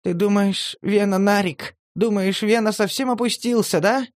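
hurt pride rising into challenge; offended. A narrator's reading.

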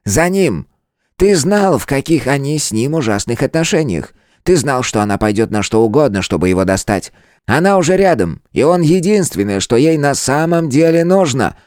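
breaking into a shout. A narrator's reading. Elder blaming his friend, breaking into a shout. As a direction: let it tip over into a shout. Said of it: "сорвался на крик".

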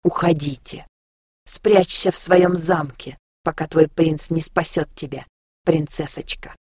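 slow, taunting demon hiss. Acted. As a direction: sneer it like a spy demon. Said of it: "прошипел ближайший к нам демон".

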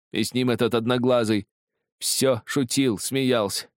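high, agitated recollection; haunted agitation. A narrator's reading. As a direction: recall the tormentor in rising dread. Frightened drunk recalls his tormentor. (взволнованно, с ужасом, высоким голосом)

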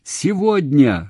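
slow, high, loud single word; shout. A narrator's reading. Man making himself heard on the phone, shouting. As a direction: shout СЕГОДНЯ, drawn out. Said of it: "закричал он".

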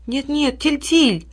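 high, urgent plea; pleading sister. A narrator's reading. Little sister stopping her brother, high urgent plea. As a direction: grab his sleeve in alarm.

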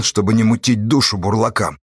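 ordinary delivery

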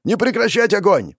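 captain orders archers to keep firing; shouted order. Acted. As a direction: keep them shooting, yell it. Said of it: "кричит капитан-разведчик".

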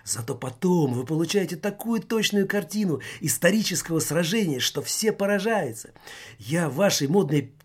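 high, loud, on the verge of tears; hurt and about to cry; near tears. A narrator's reading. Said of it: "готов разрыдаться от обиды".

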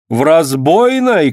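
alarmed cry, slowed; startled woman's cry. A narrator's reading. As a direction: call out in alarm. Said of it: "крикнула Алёна".

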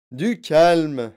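loud firm call for calm; shouting. A narrator's reading. Wonka to hysterical mother, shouting. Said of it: "cria Monsieur Wonka".

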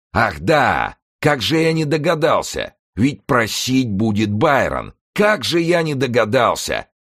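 very high, loud, mocking cries; sarcastic hysterical yelling. A narrator's reading. Старик с издёвкой кричит на Байрона, истерически. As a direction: jeer at them in a frenzy.

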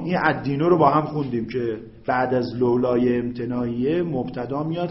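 normal talking voice

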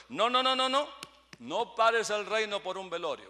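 put-on high, loud, emphatic old mother refusing; mother won't hear of it, loud and high; mother's loud insistence. Old mother waving off her son, loud insistent refusal.

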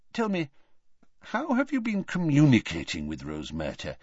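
put-on calm, wry old wizard; lightly voiced amused old headmaster; a touch of dry amusement; old headmaster Dumbledore.

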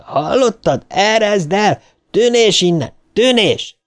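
very high, urgent cries; shouted order. A narrator's reading. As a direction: drive the monster off, pitch climbing. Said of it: "kiáltotta". (sürgető, magas kiabálás)

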